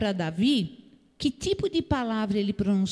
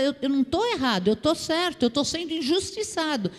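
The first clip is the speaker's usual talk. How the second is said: higher, mildly aggrieved protest; indignant self-defence; 5 semitones higher than usual. Acted. A preacher voices someone insisting they were wronged, mildly indignant. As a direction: protest quickly at first, pitched up, as if wronged. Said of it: "a gente deixa o nervoso aflorar".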